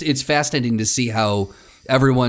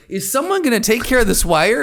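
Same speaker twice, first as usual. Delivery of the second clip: Martin Short fussing; 10 semitones higher than usual. Retold or imitated. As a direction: squawk it up high like a fussy co-star. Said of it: "Martin Short, like".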